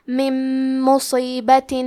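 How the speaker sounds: من مصیبت with the نون merged into a doubled nasal میم; idgham with ghunna. Shown as a demonstration. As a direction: blend من into مصیبت with a humming nasal. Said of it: "نون ساکن کو میم میں ملا کے غنہ اور تشدید". (من مصیبت میں نون کو میم میں ملا کر غنہ کے ساتھ)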